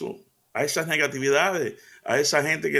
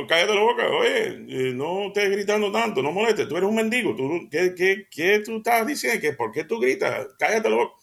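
higher, sharp rebuke; scolding crowd; 5 semitones higher than usual. Acted. Crowd rebuking the blind beggar, angry scolding. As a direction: shut him up with scorn. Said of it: "como diciendo".

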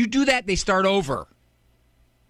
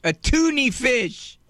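put-on proud kid punchline; 7 semitones higher, slower than usual.

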